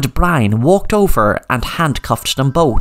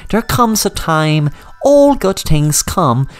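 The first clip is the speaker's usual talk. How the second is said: higher, sing-song villain taunting his captives; gloating villain; 4 semitones higher than usual. Acted. Brian gloats to Sam, mildly menacing. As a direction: savour every word of the trap.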